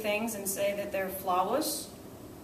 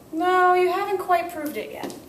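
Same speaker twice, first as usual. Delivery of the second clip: gently correcting; 9 semitones higher, 6 dB louder than usual. Shown as a demonstration. Teacher gently rejects a student's answer.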